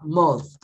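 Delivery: "Month" on its own, falling, with final th; pronunciation demo. Shown as a demonstration. Teacher showing how it is said, careful demo. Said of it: "Assim, olha".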